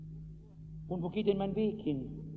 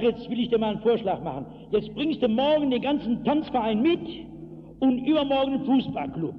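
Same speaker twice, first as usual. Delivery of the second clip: cold fury; 3 semitones higher, 4 dB louder than usual. Retold or imitated. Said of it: "kalte Wut".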